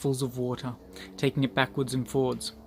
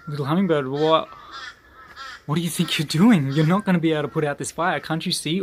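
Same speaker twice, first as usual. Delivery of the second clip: louder, quickened disbelieving scolding; incredulous animals; 3 semitones higher, 5 dB louder than usual. Acted. Panicked animals telling the hummingbird it's hopeless, loud and fast. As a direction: pile on the doubts, fast and raised.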